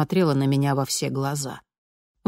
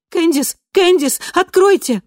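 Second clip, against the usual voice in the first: much higher, louder panicked calling; panicked shout; 14 semitones higher, 8 dB louder than usual. A narrator's reading. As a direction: bang on the door and scream her name. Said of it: "панически заколотилась в её дверь". (панический крик, гораздо выше и громче)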